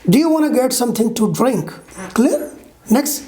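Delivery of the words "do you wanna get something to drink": quick "wanna" for want to; reduced form. Shown as a demonstration. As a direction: link "Do you wanna" briskly. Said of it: "Comparing unreduced and reduced pronunciation".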